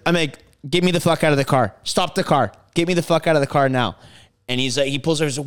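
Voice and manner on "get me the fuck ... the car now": fast, loud demand to stop; angry yell. Retold or imitated. Furious passenger demanding to be let out, fast and loud. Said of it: "I'm yelling at this guy".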